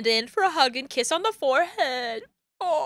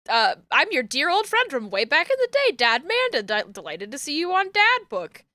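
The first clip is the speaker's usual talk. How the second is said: lightly voiced mock-formal old friend; daughter posing as dad; 3 semitones higher than usual. Daughter posing as dad's old friend online, mock-formal. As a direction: play a slightly hammed-up fake gentleman.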